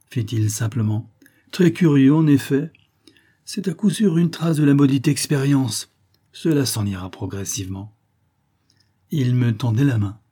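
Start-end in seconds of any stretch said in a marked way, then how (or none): 1.5-8.0 a hint of a brisk, higher scientist voice; calm savant shrugging off the mishap; slightly raised, lively physicist voice; lightly voiced physicist. Physicist voice, held.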